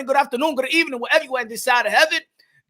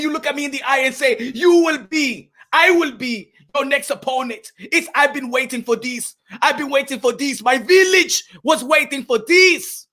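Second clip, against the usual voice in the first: Makabu. Acted.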